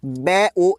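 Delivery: बै, ओ split into two separate sounds; sounded out slowly. Shown as a demonstration. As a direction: break बॉय into बै then ओ, one sound at a time. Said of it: "Hindi में कैसे pronounce होगा".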